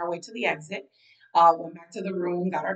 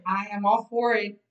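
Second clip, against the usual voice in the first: eager; 3 semitones higher, 4 dB louder than usual. Acted. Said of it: "So Nikki's like".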